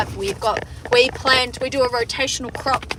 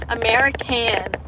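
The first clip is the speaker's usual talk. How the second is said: put-on American pronunciation of American; mock American, every letter sounded; attempted American accent. Shown as a demonstration. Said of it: "I don't have the American".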